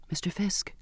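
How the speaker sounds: hushed, hesitant whisper; soft whispered call. A narrator's reading. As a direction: whisper it to get his attention. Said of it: "I whispered".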